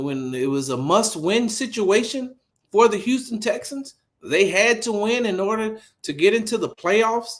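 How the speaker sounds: high-pitched, insistent argument; indignant disbelief. Real, not acted. Host defends rookie's playoff push, indignant. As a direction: argue it high, point by point, incredulous. Argues against the claim with facts.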